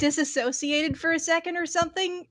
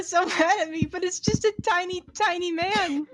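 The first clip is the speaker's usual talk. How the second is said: higher, cracking up; laughing while talking; 4 semitones higher than usual. Real, not acted. Telling why the theater got mad, laughing. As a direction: giggle through the words.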